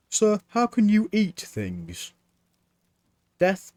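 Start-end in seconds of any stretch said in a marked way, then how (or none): 0.1-2.1 put-on higher, eager boy's voice; young Mort. A narrator's reading. Apprentice Mort questioning Death, higher boyish voice. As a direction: play the puzzled young apprentice.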